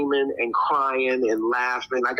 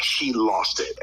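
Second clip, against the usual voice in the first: dramatic emphasis; 3 semitones lower, slower than usual. Real, not acted. Repeats story's high point for weight.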